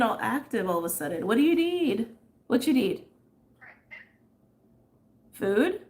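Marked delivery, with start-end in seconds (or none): 1.3-5.8 high, loud sweet voice for the pet; pet talk. Real, not acted. Talking to her restless pet, high pet voice. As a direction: coo at the pet.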